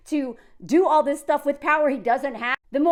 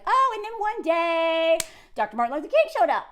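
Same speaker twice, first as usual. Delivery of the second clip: mock history-lesson telling; 3 semitones higher than usual. Mocks how history was taught.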